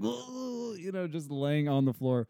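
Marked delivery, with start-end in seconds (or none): 0.0-0.7 imitated gleeful coo. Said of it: "She's, like, cackling".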